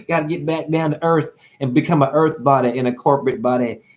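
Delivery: mock complaining. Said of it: "You'd complain".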